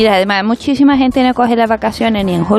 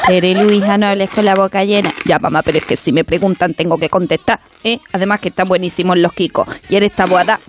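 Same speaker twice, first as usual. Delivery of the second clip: María Teresa Campos impression.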